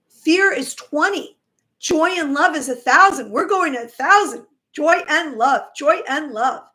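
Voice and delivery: rally them toward joy; loud enthusiastic uplift. Real, not acted. Uplifting climax of the talk.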